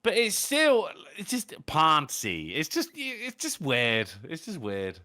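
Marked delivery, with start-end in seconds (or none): 1.7-2.5 American-accented "Ponzi", drawn out; imitated American accent. Shown as a demonstration. British host mimicking the co-host's weird-sounding word, imitated American accent. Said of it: "in an American accent the word poncy".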